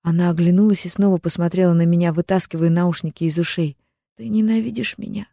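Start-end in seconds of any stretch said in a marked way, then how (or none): 4.2-5.3 higher, small voice of the younger sister; tearful sister asks if she is hated, higher; hoarse girl's question. A narrator's reading. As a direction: ask timidly as the little sister. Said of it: "хрипло спросила та".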